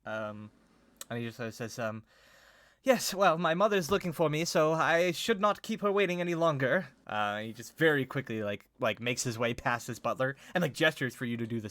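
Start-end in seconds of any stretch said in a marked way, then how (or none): 2.8-6.9 high-pitched, flustered excuse; polite but uneasy, keen to get away; nervous. Acted. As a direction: make your excuses anxiously, voice raised in pitch. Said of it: "a little bit afraid of this".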